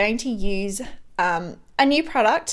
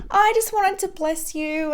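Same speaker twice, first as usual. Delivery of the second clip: tender friend; 9 semitones higher than usual. Retold or imitated. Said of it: "She's like".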